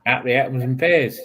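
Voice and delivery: quick demo of Cockney; Cockney accent. Shown as a demonstration. Answering how a Cockney would say it, Cockney accent. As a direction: show how a Cockney says it. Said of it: "how does a Cockney say it then?".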